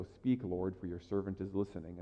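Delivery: quiet prayer. Shown as a demonstration. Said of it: "that's the best way to pray".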